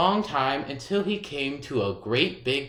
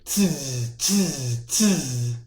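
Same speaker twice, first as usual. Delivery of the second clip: monkey tsk; much slower than usual. A narrator's reading. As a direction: click back at him like a monkey. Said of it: "and said".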